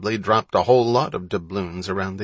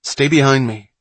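bossy; 4 semitones higher, 7 dB louder than usual. A narrator's reading. Older brother giving orders.

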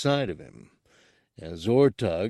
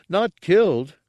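loud insistence; 9 semitones higher, 7 dB louder than usual. Acted. Gartog corrects Ortug.

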